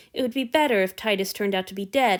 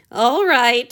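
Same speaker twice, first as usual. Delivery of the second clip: between giggles; 5 semitones higher, 8 dB louder than usual. A narrator's reading. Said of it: "he managed between giggles".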